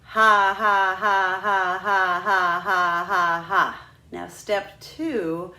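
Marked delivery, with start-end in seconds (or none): 0.0-3.9 slow, loud, separate breathy ha pulses; punchy diaphragm ha ha ha; breath pulses on ha. Shown as a demonstration. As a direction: push each ha from the belly like a slow sarcastic laugh. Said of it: "Say that with me".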